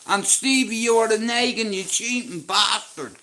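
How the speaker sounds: hammed-up outrage at a card cheat; mock angry shout. Yelling at cheating friend in story.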